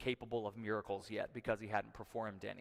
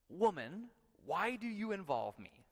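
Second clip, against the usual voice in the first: higher-pitched scripture dialogue, lightly voiced; quoted reply to mother; 7 semitones higher than usual. Preacher reading Jesus's reply to his mother, lightly acted. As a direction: read the quote higher, as a pointed question.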